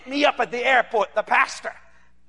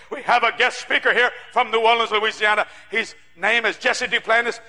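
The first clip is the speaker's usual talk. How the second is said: lower, subdued host voice; imitated church introduction; 3 semitones lower than usual. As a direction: introduce a guest with little enthusiasm, imitating the pastor. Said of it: "like this".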